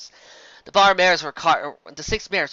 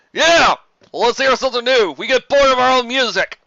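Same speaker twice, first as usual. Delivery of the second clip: eager patron voice; 8 semitones higher, 8 dB louder than usual. Acted. Tavern ponies urging a song.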